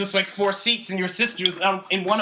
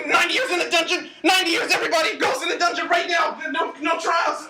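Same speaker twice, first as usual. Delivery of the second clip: yelling orders in a fury; shouted decree, voice cracking with rage; angry shouting; 3 semitones higher than usual. Acted. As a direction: bellow the sentence at everyone.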